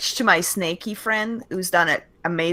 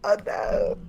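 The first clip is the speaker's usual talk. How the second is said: whispering; 3 dB quieter than usual. Real, not acted. Player whispers back.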